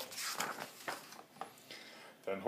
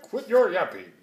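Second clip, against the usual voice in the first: called back; 3 semitones higher, 5 dB louder than usual. A narrator's reading. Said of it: "he called back".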